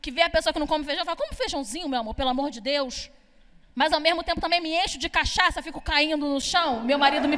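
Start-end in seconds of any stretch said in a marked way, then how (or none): 1.2-3.1 a hint of a fussy grown-up coaxing softly; softer, mild pleading tone; nagging adult. Annoying adult coaxing someone to eat beans, lightly voiced pleading. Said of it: "aquela adulta chata".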